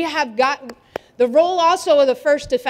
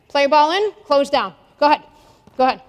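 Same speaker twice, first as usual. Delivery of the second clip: raised coach's call across the gym; 4 dB louder, faster than usual. Real, not acted. Coach starts the drill for the players, calling out.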